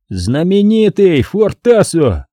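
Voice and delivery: high, slow mocking fanfare; smirking Vincent. A narrator's reading. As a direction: announce him with a smirk. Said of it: "ухмыльнулся". (с ухмылкой, напыщенно)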